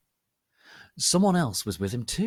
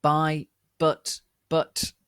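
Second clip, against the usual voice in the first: grunted; 6 semitones higher, 6 dB louder, much slower than usual. A narrator's reading. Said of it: "he grunted".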